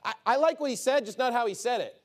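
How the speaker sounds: lightly voiced whiny critic; a hint of a complaining listener; mock critic. Worldly critic complaining about the preacher's manner, lightly mocked. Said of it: "They fixate on the manner".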